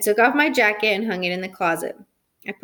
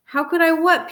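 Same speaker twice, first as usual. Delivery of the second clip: higher, puzzled question; baffled mother; 7 semitones higher, 3 dB louder than usual. A narrator's reading. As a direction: ask it back in bewilderment. Mother baffled by son's accusation.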